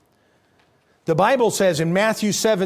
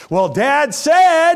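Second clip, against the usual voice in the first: put-on insistent kid; 9 semitones higher, 8 dB louder, much slower than usual. Kids voiced holding him to it.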